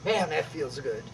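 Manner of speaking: soft, laughing satisfaction; real laughing relief. Real, not acted. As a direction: chuckle through it, pleased. After the strike exercise.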